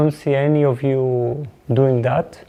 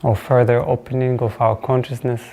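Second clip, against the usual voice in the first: reflective opening blessing; 2 semitones lower than usual. Real, not acted. Teacher blessing the silence before class, reflective and unhurried.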